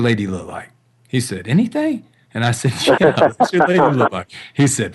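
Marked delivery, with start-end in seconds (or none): 1.5-2.0 much higher, disbelieving query; mock surprised teen asking anything; surprised question. 3.0-4.3 louder, higher, chuckling through it; amused teasing repeat, louder; laughing repeat. Retold or imitated.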